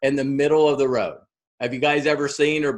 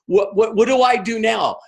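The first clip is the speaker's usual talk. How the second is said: eager crowd; 6 semitones higher than usual. Retold or imitated. Curious people flood in asking Tara what to do, excited. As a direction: pile the questions on, hungry for more. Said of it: "everywhere going".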